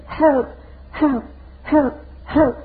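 mock desperate cries. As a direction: cry out for help like men under conviction. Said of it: "and they were saying this".

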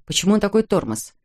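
plain reading voice

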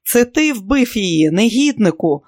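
loud, high furious accusing yell; howled accusation. Acted. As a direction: howl the blame at him. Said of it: "заволав Тоні".

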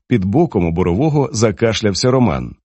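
plain reading voice

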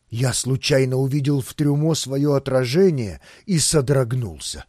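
usual speaking voice

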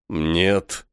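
low, composed refusal; calm. A narrator's reading. Vangur answers a hostile question, calmly. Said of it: "столь же спокойно ответил Вангур".

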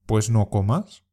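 "Pues no comas." with the stress on "no" and a rising end; dismissive reply. Shown as a demonstration. Teacher modelling a dismissive comeback for learners to imitate. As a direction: shrug it off, take it or leave it. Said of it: "Intenta imitar la entonación".

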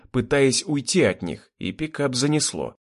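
ordinary delivery

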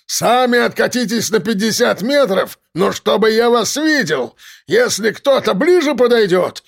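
ranting threats. Acted. Gunman shouting demands.

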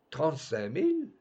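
rising, incredulous repeat of "Trente-cinq mille"; astonished at the price; surprised echo. Acted. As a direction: question "mille" with a rise.

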